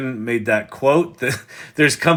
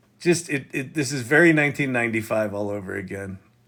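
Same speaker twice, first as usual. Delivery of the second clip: ordinary talk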